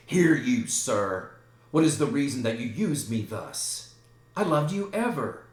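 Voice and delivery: loud start, pitch leaping at the end; aggrieved appeal. Acted. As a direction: confront a friend with hurt protest. Hamlet confronts Laertes.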